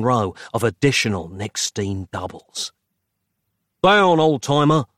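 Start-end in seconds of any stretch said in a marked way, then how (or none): 3.8-4.9 urgent shouted warning; yelling. A narrator's reading. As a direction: bark the warning. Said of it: "Nick yelled".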